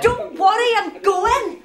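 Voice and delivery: sulky loud retort. Acted. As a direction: snap back and storm out of the room. Teen storms off, retorting.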